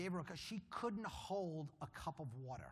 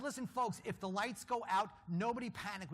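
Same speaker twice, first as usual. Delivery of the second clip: raised, steady command; calming a crowd in a dark stairwell, raised voice; calling to the group; 5 semitones higher, 5 dB louder than usual. Retold or imitated. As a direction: take charge of the crowd, loudly.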